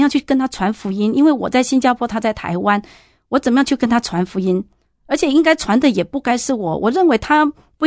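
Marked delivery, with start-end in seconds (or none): 3.3-4.6 same question, rushed and pressing; quicker repeat. Retold or imitated. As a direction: hurry the question out, at a loss. Repeats question, more urgent.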